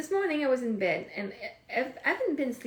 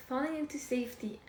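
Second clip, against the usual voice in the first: tender; 2 semitones higher, 7 dB quieter than usual. Real, not acted. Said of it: "that sounds so nice".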